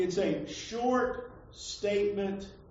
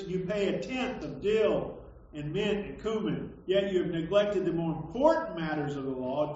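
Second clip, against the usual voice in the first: declaimed scripture reading. Acted. Preacher reads Jesus's woes to hypocrites, declaimed. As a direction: proclaim it as a rebuke from scripture.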